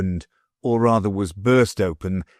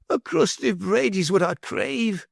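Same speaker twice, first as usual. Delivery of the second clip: repeated plea; 12 semitones higher than usual. A narrator's reading. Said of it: "he repeated".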